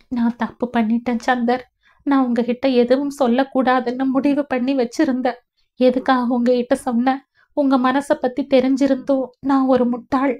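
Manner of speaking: weepy, remorseful confession; tearful self-reproach. Acted. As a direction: blame yourself close to tears. Weeping wife blames herself.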